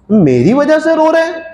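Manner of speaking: surprised. Acted. King startled by the reply.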